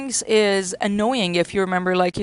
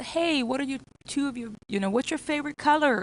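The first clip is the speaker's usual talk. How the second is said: put-on cheerful question to a child; 5 semitones higher than usual. Shown as a demonstration. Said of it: "So you ask the child".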